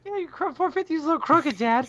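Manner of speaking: put-on Georgia accent. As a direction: ham up a Southern Georgia kid voice. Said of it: "That was a terrible Georgian accent".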